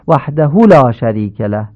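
«وحده» with the hu cut short; unlengthened hu in «وحده»; wrong clipped vowel. Shown as a demonstration. Teacher repeating the clipped mistake. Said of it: "این غلطه".

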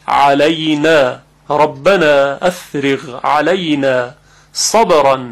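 slow, measured Quranic reading; careful tajwid demo, slowly; slow recitation. Shown as a demonstration. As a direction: recite with a pressed ain and drawn vowels. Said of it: "یک اندک فشاری در وسط حلق".

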